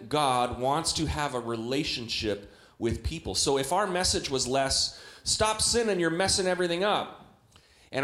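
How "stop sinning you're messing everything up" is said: scolding church voice. Retold or imitated. Preacher mocking the scolding message.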